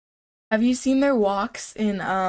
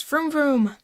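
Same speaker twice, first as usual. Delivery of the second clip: car impression; 5 semitones higher than usual. Shown as a demonstration. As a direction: rev it like a toy car engine. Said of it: "my car impression".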